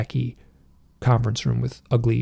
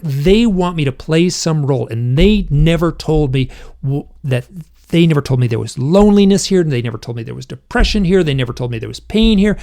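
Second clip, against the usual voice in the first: louder, insistent reenacted lament; anguished complaint; 3 semitones higher, 5 dB louder than usual. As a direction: pile up the grievances with rising force. Reenacting his anguished hypnosis outburst.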